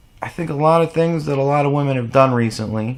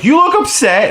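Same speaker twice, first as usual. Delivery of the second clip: high, loud mimicry of a nagging woman; put-on pestering woman, pitched way up; mocking woman's voice; 5 dB louder than usual. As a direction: imitate her in a piercingly high pitch. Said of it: "and she's like".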